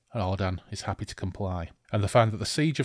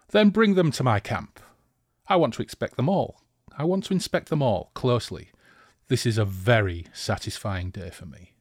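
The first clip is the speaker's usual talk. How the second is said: gloating villain order; 3 dB louder than usual. Acted. Villain orders captives brought.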